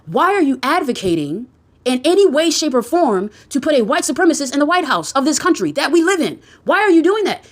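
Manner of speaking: pretend scolding. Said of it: "go to them and say".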